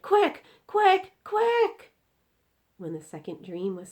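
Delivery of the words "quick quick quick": high, loud, hurried calls; hurry, hurry, catch it; urgent cry. Acted. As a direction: giant urging haste. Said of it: "he cried".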